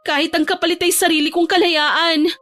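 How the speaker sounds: put-on high-pitched, aggrieved young woman; hurt pleading daughter. Teresa to Papa who will not listen, high hurt plea. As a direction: tell your father how wronged you feel.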